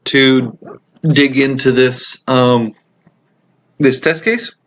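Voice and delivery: talking through hiccups; hiccuping between words. Real, not acted. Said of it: "I've got the hiccups here".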